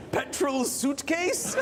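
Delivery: laughing helplessly. Retold or imitated. Retold desperate guess, laughing.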